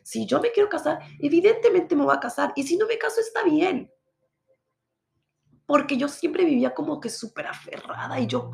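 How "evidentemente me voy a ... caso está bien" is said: much higher, louder, letting it go; emphatic release. Real, not acted. Telling viewers marriage no longer matters, emphatic release. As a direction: lift it up with relief. Declaring peace about marriage.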